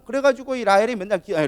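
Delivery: ordinary talk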